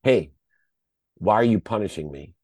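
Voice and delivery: mild retold anger; hurt, accusing call-out. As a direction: confront him, holding the anger in. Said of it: "I called him in anger".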